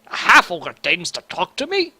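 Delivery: lightly voiced indignant dwarf; disdainful dwarf speaking down to a half ogre; haughty dwarf. Voicing a haughty dwarf NPC.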